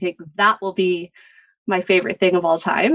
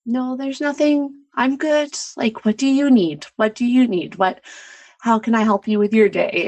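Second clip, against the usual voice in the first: brushing it off; 2 semitones higher than usual. Retold or imitated. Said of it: "being the one that is the rock".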